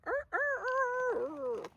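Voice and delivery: high strained rooster crowing; hammed-up crowing of a tired old rooster; rooster crow imitation. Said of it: "He's like".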